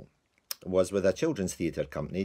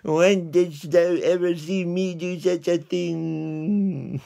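far higher, slow, exasperated; mock despair; 10 semitones higher, 6 dB louder, slower than usual. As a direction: stretch it out in disbelief. Lance scolding the dog again.

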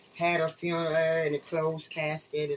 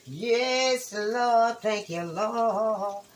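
praising the Lord; 2 semitones higher, 4 dB louder, much slower than usual. Real, not acted. Praising God.

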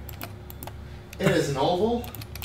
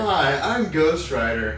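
Ghost Rider voice; 3 dB louder than usual. Acted. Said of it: "You sound like Ghost Rider".

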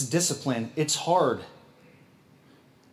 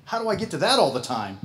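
surprised whoa; 4 semitones higher than usual. Retold or imitated. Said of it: "I'm like".

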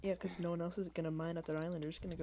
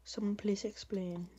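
whispering; 2 semitones higher, slower than usual. Real, not acted. Whispers through the recording.

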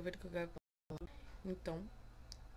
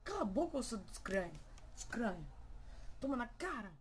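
mock fight; 2 semitones higher than usual. Mirror fight escalates.

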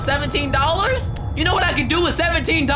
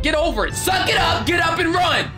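shouting orders; 6 semitones higher than usual. Real, not acted. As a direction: bark orders. Yelling at character.

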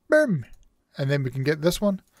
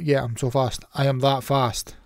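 usual speaking voice

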